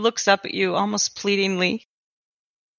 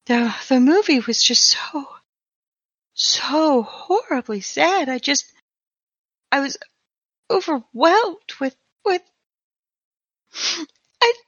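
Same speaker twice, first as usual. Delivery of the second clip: halting, choked-up words; breaking down. Acted. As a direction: voice cracking, pushing through tears. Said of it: "he just starts breaking down".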